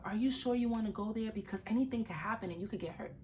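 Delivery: quick, fretful mock warning; a hint of nervous caution; worried warning. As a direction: rattle off the worry. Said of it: "You don't say that".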